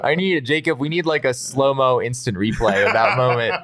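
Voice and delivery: laughing high while talking. Real, not acted. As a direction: giggle through the words. Laughing after Nerf ambush.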